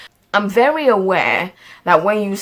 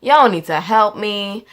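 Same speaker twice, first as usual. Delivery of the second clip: Southern drawl accent; slower than usual. Real, not acted. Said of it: "why I'm speaking in this accent".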